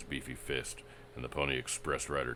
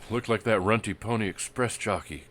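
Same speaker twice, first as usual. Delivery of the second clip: hoarse whisper; 8 semitones higher, 9 dB louder than usual. Acted. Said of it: "Crane whispered hoarsely".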